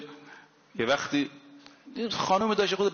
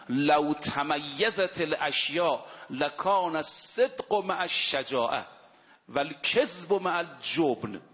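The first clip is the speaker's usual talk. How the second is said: slow hadith recitation; slower than usual. Acted.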